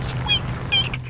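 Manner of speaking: very high squeaky rat voice; squeaky rubber duck. Pretend. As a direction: squeak like a tiny cartoon rat. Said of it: "you sound like a rat".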